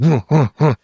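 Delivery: puffing huffs of a runner; imitated panting. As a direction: mimic huffing while chasing someone. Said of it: "I am behind him, and I'm".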